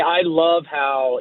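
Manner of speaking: drawn-out, mock-admiring sarcasm; sarcastic. Real, not acted. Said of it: "I'm being sarcastic".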